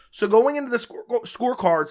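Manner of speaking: losing his voice, a bit raspy; hoarse voice. Real, not acted. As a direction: talk through a worn-out, sick voice. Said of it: "I'm losing my voice from the stream".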